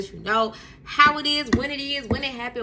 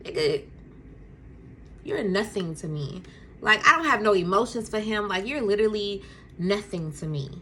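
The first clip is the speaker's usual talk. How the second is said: cold dismissive. Retold or imitated. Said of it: "mean mugging him".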